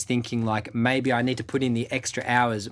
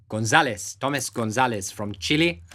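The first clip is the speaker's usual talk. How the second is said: mock Chilean accent on the name; light put-on Chilean accent. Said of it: "that was my Chilean accent".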